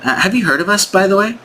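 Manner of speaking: high, lilting rising question; eager caller. Pretend. Sales rep asking the prospect if he knows them, high and hopeful.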